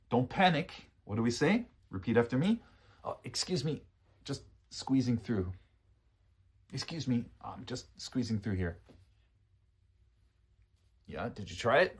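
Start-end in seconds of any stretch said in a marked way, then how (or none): 3.0-5.5 gentle, friendly request; friendly, with a smile. Shown as a demonstration. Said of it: "Repeat after me with a smile because we're being friendly". 6.7-8.8 soft, polite model phrase; easygoing, unhurried request; friendly, with a smile. Shown as a demonstration. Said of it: "Repeat after me with a smile because we're being friendly".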